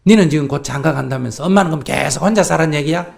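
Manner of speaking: loud, indignant demand to the son; forceful pushback. Shown as a demonstration. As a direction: push back hard and loud. Coach acting mother pushing back.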